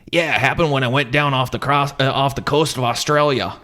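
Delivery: a hint of a laid-back captain; lightly voiced casual sailor; Captain Ron voice. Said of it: "Ron goes".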